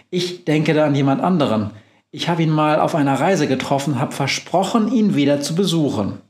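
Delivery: a hint of a brisk witch, quick; lightly voiced witch. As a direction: rattle it off as the cheerful witch. Befana voiced in story.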